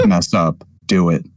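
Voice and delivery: lightly voiced low threat; understated tough-guy threat; menacing gunman boss. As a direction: dare them, mock-menacing. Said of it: "pointing a gun at every single subsidiary".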